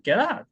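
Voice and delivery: lazy linked get out, like 'gera'; lazy pronunciation. Shown as a demonstration. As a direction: say 'get out' loosely with a tapped t. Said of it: "레이지하게 발음을". (get out을 레이지하게 '게라'로)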